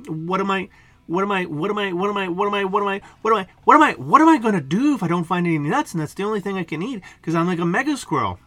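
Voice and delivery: hammed-up hungry panic; panicked squirrel. Hungry squirrel panics over nuts.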